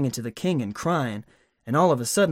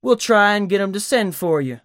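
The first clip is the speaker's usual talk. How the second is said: mocking; 5 semitones higher, 3 dB louder than usual. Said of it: "kinda mocking him".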